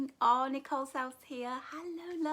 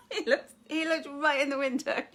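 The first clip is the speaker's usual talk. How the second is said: laughing; 7 dB louder than usual. Real, not acted. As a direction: laugh through the words. Bin man looked in.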